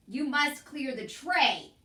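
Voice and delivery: slow, loud shouted order; shouting. A narrator's reading. Cook shouts the order at hard-of-hearing Mig. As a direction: bellow each word slowly. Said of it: "shouted Cook".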